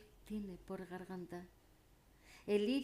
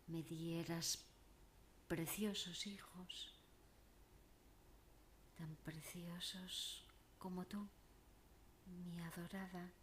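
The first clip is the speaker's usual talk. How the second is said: elegiac declamation. Acted. Troubadour begging his beloved Siana to marry him, elegiac declamation. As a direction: declaim it as a lovelorn troubadour's entreaty. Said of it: "declamando poesía elegiaca".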